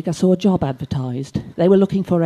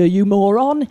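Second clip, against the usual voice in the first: "you moron" snapped out louder; exasperated insult; 3 semitones higher, 4 dB louder than usual. Retold or imitated. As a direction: fling "you moron" at the boy. Exasperated insult, first take.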